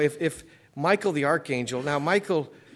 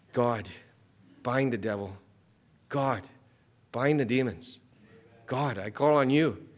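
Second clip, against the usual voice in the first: humble prayer. Retold or imitated. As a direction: pray it humbly. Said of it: "I'm gonna say".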